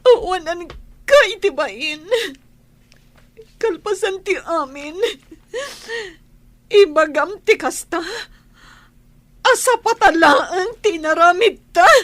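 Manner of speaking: rising to a loud, angry rebuke; angry scolding. Acted. Wife scolds her unfaithful husband, angry and loud. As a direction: tear into him for his shamelessness.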